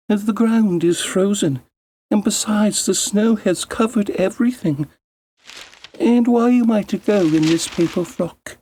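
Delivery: put-on high girlish voice, pleading; girl's protest. Girl protests to stepmother.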